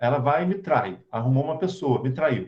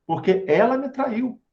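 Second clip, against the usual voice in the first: higher-pitched, mildly indignant self-defence; self-justifying anger; 5 semitones higher than usual. Acted. Betrayed boyfriend justifying his anger to himself, mildly indignant. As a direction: insist on the grievance, with a touch of acted anger. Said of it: "vou me justificar na minha raiva".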